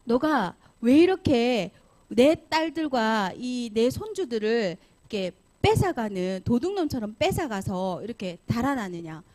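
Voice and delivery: acted indignant scolding, heavy on each phrase; angry accusation. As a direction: demand an explanation like a wronged father. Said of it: "이제 화났어요".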